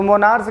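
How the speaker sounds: "मोनार्च" with a final ch; wrong pronunciation. Shown as a demonstration. Teacher flagging the error to students, "मोनार्च" said "mo-naarch". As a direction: end "मोनार्च" as in "march". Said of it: "गलत pronunciation होता है".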